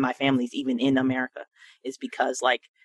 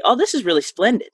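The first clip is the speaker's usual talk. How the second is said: lightly voiced mother, lifted pitch; a higher, American-accented imitation of mom; quoting mother's vernacular; 7 semitones higher than usual. Daughter showing how her mother says splendid, lightly imitated. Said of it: "she says it in an American accent".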